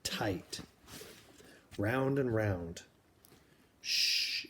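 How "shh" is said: whispered shush. Acted. Susan soothes screaming Ada in the shelter, whispered shush. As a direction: hush her gently, all breath.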